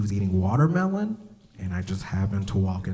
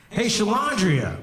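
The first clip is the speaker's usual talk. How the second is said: put-on kid calling out; 12 semitones higher than usual. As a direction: call her from across the playground. Kid calls girl across playground.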